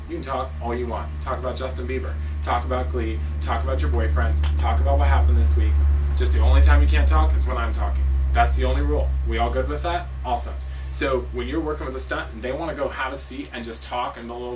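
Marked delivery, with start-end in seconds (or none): 0.1-10.5 building from easygoing to loud and firm; coach laying ground rules. Shown as a demonstration. Coach telling her team the one practice rule, growing louder. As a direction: start relaxed, then lay down the one rule hard. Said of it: "you say".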